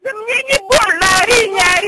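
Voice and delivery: defiant shout. Real, not acted.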